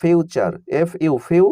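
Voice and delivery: slow letter-by-letter spelling, then future; spelling out slowly. Shown as a demonstration. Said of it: "যেমন দেখো". (ধীরে বানান করে পড়া)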